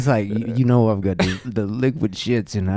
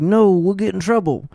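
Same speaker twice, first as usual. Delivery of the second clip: put-on scared kid; 8 semitones higher, 4 dB louder than usual. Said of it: "he's like".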